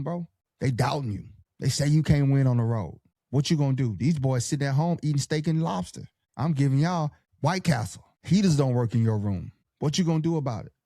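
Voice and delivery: rally the team like a coach before the playoffs; pep talk coach. Pretend. Coach firing up his players for road playoff games, pep-talk voice. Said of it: "That's the speech".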